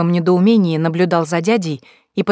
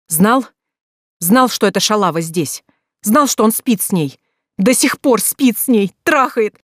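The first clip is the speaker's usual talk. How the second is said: furious outburst; 4 semitones higher than usual. Acted. Sister screaming at her brother about the affair, furious. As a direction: hurl accusations at brother.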